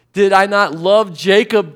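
God rebuking his people, lightly voiced; God's voice lightly voiced. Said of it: "God said".

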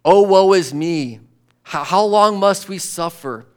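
a whiny, complaining churchgoer; mock whining congregant. A tired worshipper whining to the preacher in a mock complaint. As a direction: moan like someone bored of temple. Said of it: "This kind of".

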